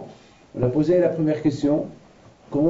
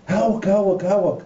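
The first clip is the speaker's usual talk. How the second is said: shouted greeting across the avenue; calling out; 8 semitones higher, much slower than usual. Retold or imitated. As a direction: call out to someone far off.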